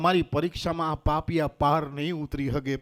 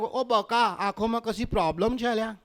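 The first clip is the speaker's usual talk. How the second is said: higher-pitched Ahmedabad accent; mock Ahmedabad dialect telling-off; Amdavadi woman; 4 semitones higher than usual. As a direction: scold him like an Amdavadi woman. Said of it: "અમદાવાદની બાયુને જોઉં તો તરત જ એક જ dialog".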